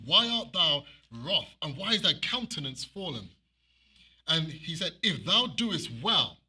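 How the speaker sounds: slow, deliberate reading voice; slow scripture reading. Acted. Preacher reading God's words to Cain, slow and deliberate. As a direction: read the verse slowly.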